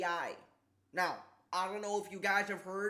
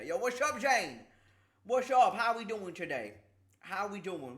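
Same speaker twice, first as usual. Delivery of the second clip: sore-mouth voice; 4 dB louder than usual. Real, not acted. Streamer greets Jane despite canker sore, slurred sore-mouth voice. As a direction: greet through a sore tongue, S sounds mushy. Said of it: "what's with the voice?".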